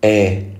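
إيه as "eh", between a and i; open "e" vowel. Shown as a demonstration. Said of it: "يلفظ بين الفتحة والكسرة".

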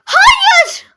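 high, loud wailing no; anguished shout. Real, not acted. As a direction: cry out in dismay. Horrified at chat message.

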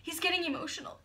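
whispered aside about him; hushed remark to the listener; soft unvoiced commentary. Real, not acted. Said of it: "I'm getting a little emotional".

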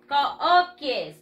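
"Cookies" read as spelled, "koh-kee-es"; "Cookies" with Spanish vowels, ko-o-ki-es. Shown as a demonstration. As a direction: sound out every vowel in "Cookies". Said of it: "Así se escribe".

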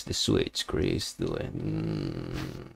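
whispered urging; whispering. Real, not acted. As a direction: whisper the order. Urging softly.

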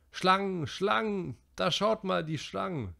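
high, loud scared shouting; frightened cry. A narrator's reading. Little boys screaming at the burning creepers, high and scared. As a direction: cry out in terror.

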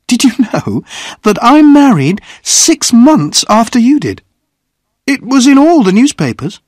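high, loud, lively character voice; animated woman. A narrator's reading. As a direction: share big news with bright energy. Woman tells news after laughing.

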